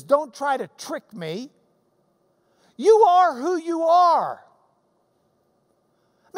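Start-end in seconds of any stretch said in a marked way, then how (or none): 0.0-4.4 firm Jesus. Retold or imitated. Preacher voices Jesus cutting through the woman's games. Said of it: "Jesus says".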